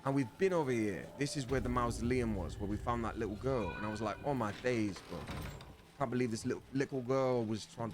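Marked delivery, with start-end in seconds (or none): 4.2-7.9 put-on London roadman accent. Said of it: "I can't do that accent".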